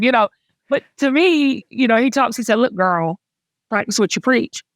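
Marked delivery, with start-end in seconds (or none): 2.6-4.6 lightly sassy Southern God, near her own voice; straight-talking Southern girlfriend with a little twang. Acted. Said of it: "sassy Southerner with a little twang".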